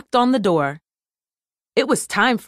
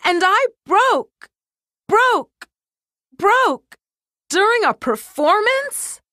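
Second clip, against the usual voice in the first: high, pleading cartoon voice, words echoing; a stuck microphone begging the doctor, high and frantic; panicked toy microphone; 11 semitones higher, slower than usual. A narrator's reading. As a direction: beg for help like a broken toy. Millie's pleading voice.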